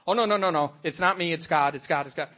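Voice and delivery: lightly mocking falsely modest protest; fake humility. Mocking falsely humble believers, a mock modest protest. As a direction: brush off the praise in a hammed-up way. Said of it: "this fake humility".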